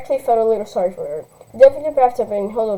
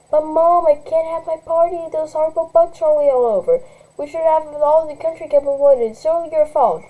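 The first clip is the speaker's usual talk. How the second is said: put-on higher, whining spoiled teen; whiny rich girl; 5 semitones higher than usual. Spoiled girl blaming her mother, lightly whiny. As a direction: complain like a spoiled brat.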